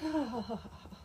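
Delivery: mock laughter. Mean girls laugh at the blacksmith, mocking. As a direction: imitate a gaggle of girls laughing. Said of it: "all the girls laugh".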